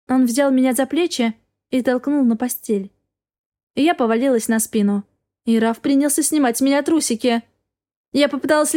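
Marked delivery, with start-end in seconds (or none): none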